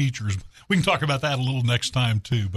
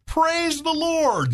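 very high, long-held exclamation; hammed-up hallelujah, hugely stretched; jubilant old lady; much slower than usual. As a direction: sing out the praise high and slow. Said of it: "And she goes".

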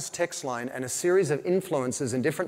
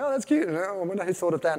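higher, lightly mocked-up delight; amused reaction; 4 semitones higher, faster than usual. Shopper reacting to a funny product name, lightly amused. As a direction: play a casual shopper's passing reaction.

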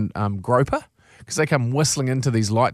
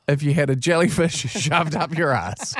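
laughing; 3 semitones higher than usual. Real, not acted. Laughs at the punchline.

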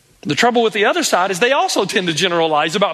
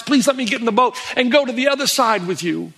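acted plea in a higher voice; pleading; 4 semitones higher than usual. Healed man begs to board the boat with Jesus, pleading. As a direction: beg earnestly, without tears. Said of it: "he begs and he pleads and he cries".

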